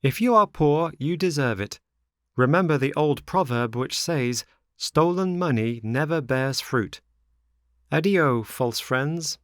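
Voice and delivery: high, loud, preachy rebuff; high-pitched moralizing farewell; scornful Pinocchio. A narrator's reading. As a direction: scold them in a high puppet voice.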